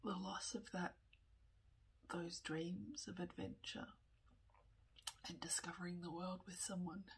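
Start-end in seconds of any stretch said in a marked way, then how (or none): 2.1-7.0 tearful whisper with a runny nose; sniffly, teary whisper; snotty crying. Real, not acted. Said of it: "sorry, my nose is running".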